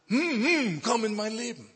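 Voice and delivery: statt „Jesus“ nur ein hohes, lautes, gepresstes „Hm, hm“, dann „komm in mein Leben“; Name bleibt stecken. Retold or imitated. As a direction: den Namen nicht herausbringen, nur hoch und laut „Hm, hm“ summen. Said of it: "Ich konnte diesen Namen nicht aussprechen". (den Namen „Jesus“ hoch und laut zu „Hm, hm“ verschluckt, als ginge er nicht über die Lippen)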